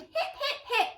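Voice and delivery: high cheer, slowing to a proclamation; cheer, then announce the hero grandly; happy hooting. A narrator's reading. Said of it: "the duckbills hooted happily".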